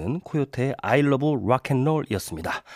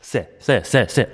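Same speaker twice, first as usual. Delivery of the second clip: mic check; 3 semitones lower, slower than usual. Shown as a demonstration. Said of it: "에코 부탁드립니다".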